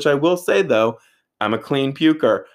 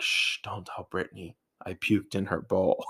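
much softer hushed confession; drunk whisper; 3 semitones lower, 8 dB quieter than usual. Retold or imitated. To Brittany without knowing, a soft shushed confession. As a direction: shush like it's a secret.

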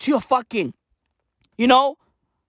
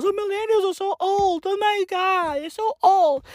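snotty teen mimicry; mocking Gen Z; 5 semitones higher than usual. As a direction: sneer like a bratty kid. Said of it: "making fun of millennials".

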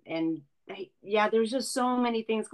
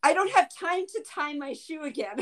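laughing; 8 semitones higher than usual. Retold or imitated. Mom quoting herself, laughing.

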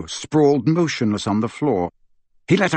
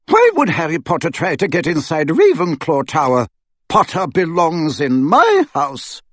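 disbelief with pride; 4 semitones higher, 3 dB louder than usual. Acted. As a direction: defend her house proudly. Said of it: "a little strain of pride".

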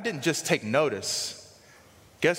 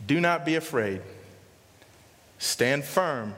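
scripture reading; 7 semitones lower than usual. Acted. Reads Moses' scripture words.

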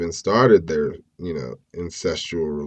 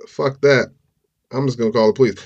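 emphatic; 5 semitones higher, 5 dB louder, faster than usual. Retold or imitated. Voicing Alyssa's decision.

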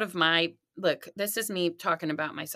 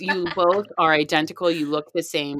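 exasperated; 4 dB louder than usual. Retold or imitated. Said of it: "it's like".

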